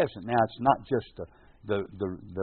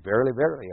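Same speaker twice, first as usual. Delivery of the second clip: Verily, verily with weight on each Verily; a solemn doubled Verily; double emphasis; 3 semitones higher, much faster than usual. Shown as a demonstration. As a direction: lean into both Verily words. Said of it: "there's that double emphasis on that word".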